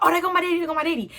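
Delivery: high, loud cry of relief; excited relief. Retold or imitated. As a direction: spot your dad and shout for joy. Sees dad's car arrive.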